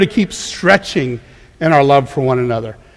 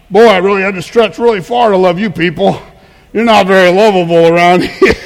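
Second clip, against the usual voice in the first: smug mock complaint; a lightly voiced smug martyr, laughing at the end; prideful; 2 semitones higher, 4 dB louder than usual. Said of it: "we get really prideful and we say things like".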